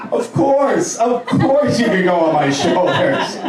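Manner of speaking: high-pitched, acted fatherly yes; forced agreeable dad. Dad answering his son on shoulder rides, exaggeratedly agreeable. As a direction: give in with exaggerated high-voiced eagerness.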